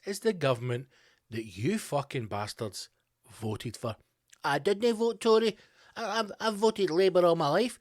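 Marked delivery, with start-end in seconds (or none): 4.4-7.8 mock English protest. Mocking English voters' excuse.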